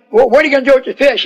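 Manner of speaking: rapid-fire question; eager rush. Acted. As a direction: hurry to ask about the fish. Fishermen eager to know.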